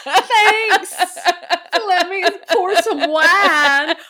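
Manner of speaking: put-on high, loud, drawn-out Southern accent; hammed-up Southern hostess call, laughing. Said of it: "slipping into a little bit of".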